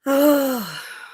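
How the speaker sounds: drawn-out, audible sigh; high falling sigh; long sigh. Real, not acted. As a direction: let out a long falling breath. Pause after dog chat.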